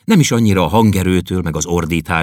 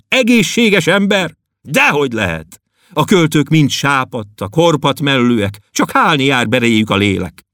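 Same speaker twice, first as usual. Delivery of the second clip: lament; 9 semitones higher, 3 dB louder than usual. Acted. Poet laments at length.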